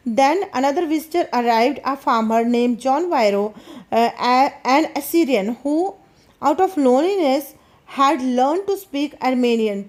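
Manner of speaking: slow, careful reading aloud of the English text; slow story reading. A narrator's reading. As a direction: read each phrase slowly for the class. (धीमी कहानी पढ़ाई)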